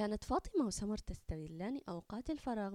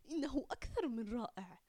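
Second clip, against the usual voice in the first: whisper; 3 semitones higher than usual. Acted. Excited secret to the teacher.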